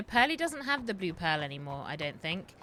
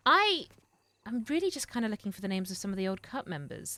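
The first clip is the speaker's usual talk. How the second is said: ordinary talk, nothing marked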